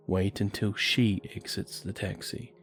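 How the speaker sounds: plain reading voice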